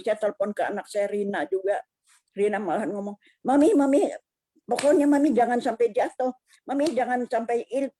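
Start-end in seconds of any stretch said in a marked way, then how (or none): 3.5-7.9 retold daughter's plea, pitched higher; higher-pitched quoted appeal to mom; urgent pleading. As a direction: urge her earnestly in a raised pitch, imitating a daughter. Retells daughter urging her on phone.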